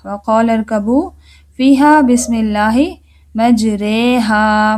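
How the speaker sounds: recited verse, मजरेहा drawn out slowly; chanted Quran verse, slow मजरेहा; Quran recitation. Shown as a demonstration. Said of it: "ये सूरह हूद में आता है".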